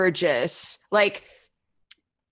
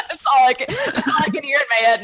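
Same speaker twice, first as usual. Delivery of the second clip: higher, words tumbling through giggles; laughing; 5 semitones higher, 4 dB louder, faster than usual. Real, not acted. Woman unable to do her accent, cracking up. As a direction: struggle to talk through laughter.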